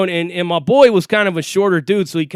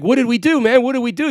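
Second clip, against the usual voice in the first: higher, mildly panicked questions; retold freak-out; 5 semitones higher, faster than usual. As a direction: imitate a friend starting to freak out. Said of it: "He's freaking out".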